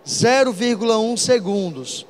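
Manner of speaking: "Zero vírgula um segundos" said slowly, each word weighted; slow emphasis. Shown as a demonstration. Teacher stressing the key value for students to note, slow. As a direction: spell out "Zero vírgula um segundos" so they circle it. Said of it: "Circulem esse valor".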